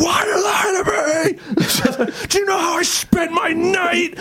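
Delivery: high cracked shout at the friend; angry yell. Retold or imitated. Confronting the friend at Burger King, shouting in a high cracking voice. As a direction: scream the accusation, voice breaking.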